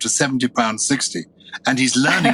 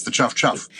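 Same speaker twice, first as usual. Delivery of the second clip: train chuff. Shown as a demonstration. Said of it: "the noise a train makes".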